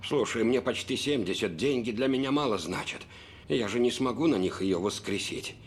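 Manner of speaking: sad. Acted. Grieving father, low.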